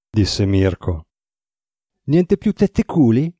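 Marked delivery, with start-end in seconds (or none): 2.0-3.3 higher, slow deadpan question; mock-serious. Drago teases Mirko with mock seriousness. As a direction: feign gravity as a joke. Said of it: "fintamente serio".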